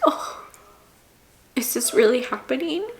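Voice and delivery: breathless whisper of disbelief. Retold or imitated. Voicing her own pinch-me thought, whispered. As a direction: whisper it like you can't believe it.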